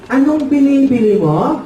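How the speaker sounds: lightly voiced baffled dad; puzzled shopkeeper father. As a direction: ask it as a confused shopkeeper. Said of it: "Sabi ng tatay".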